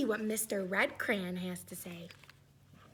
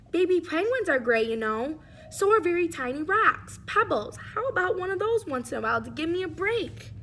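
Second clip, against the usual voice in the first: louder, weary crayon complaining; very tired gray crayon; 4 dB louder than usual. Acted. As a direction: beg for a small job for once.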